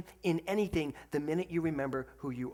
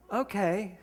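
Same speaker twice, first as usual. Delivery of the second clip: laughing okay; 5 semitones higher, 3 dB louder than usual. Real, not acted. Caught out by daughter's retort.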